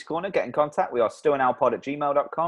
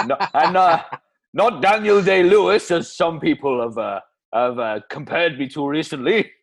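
put-on Welsh accent; 4 dB louder than usual. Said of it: "Bloody Welsh accent again".

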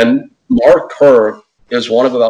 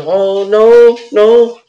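high, put-on "oh no" much higher; mock dismay; 11 semitones higher, 4 dB louder, much slower than usual. She panics when asked to lose. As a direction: squeal out a dismayed no. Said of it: "And she goes".

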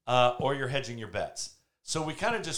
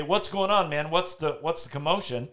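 acted commotion; 5 semitones higher, 3 dB louder than usual. Voicing blind men puzzled by commotion.

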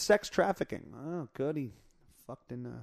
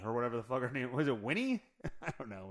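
normal talking voice

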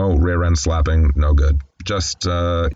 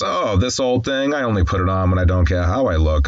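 playful retold false modesty. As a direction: lightly imitate a flirt brushing off a compliment. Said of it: "she just playfully says".

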